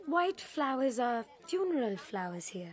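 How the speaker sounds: hushed whisper. Real, not acted. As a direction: whisper it discreetly.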